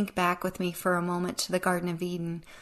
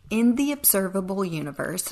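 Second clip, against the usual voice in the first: "observable" stressed within the phrase; 3 dB louder than usual. Shown as a demonstration. Host qualifying a science figure, stress on "observable". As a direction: lean on the word "observable". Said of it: "I emphasize the word observable".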